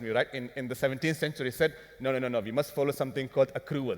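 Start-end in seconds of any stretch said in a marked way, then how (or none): 2.0-4.0 lightly put-on Italian accent; badly faked Italian accent; fake Italian accent. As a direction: give the quote a hint of mock Italian. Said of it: "This is my fake Italian accent".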